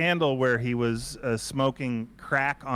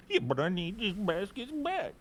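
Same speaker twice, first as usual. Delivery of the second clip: mock plea; 7 semitones higher, 5 dB quieter than usual. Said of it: "I would play the".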